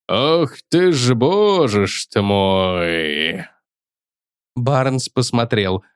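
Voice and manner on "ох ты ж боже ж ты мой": медленное изумлённое восклицание. Acted. Боулс изумлённо хмыкает.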